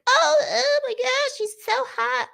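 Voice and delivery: high, breathy fangirl gush; swooning girls. Retold or imitated. Mocking the girls who swoon over the vampire, high and gushing. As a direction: gush over him like a smitten fan. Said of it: "all the girls are like".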